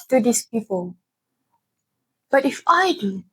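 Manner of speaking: phrases set apart by pauses, lifted openings falling away; measured poetic recital with a repeated refrain; spoken word poem. Acted. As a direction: deliver it as a hesitant plea, line by line.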